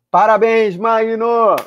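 excited congratulations. Real, not acted. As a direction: congratulate him with a burst of joy. Congratulating the raffle winner.

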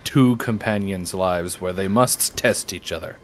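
deep, slow dramatic declaration; solemn movie-trailer gravitas, hammed up; mock epic voice. Mock epic challenge to companion.

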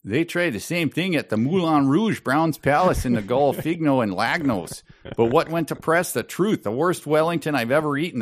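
put-on high, haughty French Canadian accent; a proud Quebec columnist, pitched high. Podcaster reading the columnist's boast in a French Canadian accent. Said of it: "maybe my Canadian accent".

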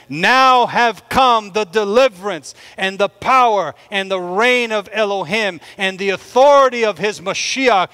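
emphatic scripture proclamation, falling away at the end; loud voice from heaven. Acted. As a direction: proclaim it like heaven's verdict, slowing into the final words. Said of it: "I heard a loud voice saying in heaven".

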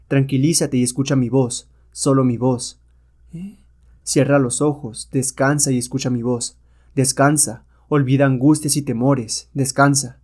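commanding, soothing, a bit slow; a hero calming a hypnotized woman with a lulling voice; hypnotic voice. Acted. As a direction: lull her to sleep with your voice. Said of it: "Su voz es dominante y adormecedora".

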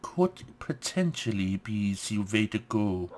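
put-on a loose, half-hearted French accent; mock French accent. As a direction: play a fake French chef, lightly. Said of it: "French impersonation".

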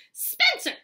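high, loud call up the stairs; yelling. A narrator's reading. Mom calls to her son upstairs, yelling. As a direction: yell for your son, pitched right up. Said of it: "she yelled on her way upstairs".

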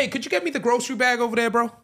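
a hammed-up South African voice; South African accent. Doing a South African accent on request from his co-host. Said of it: "I've went into my, uh, South African bag".

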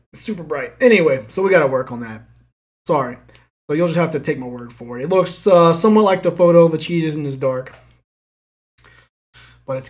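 talking between bites; chewing. Real, not acted. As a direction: mouth partly full. Seen 0: Spoonful taken at -1.0; spoon and cup held throughout, mouth busy.

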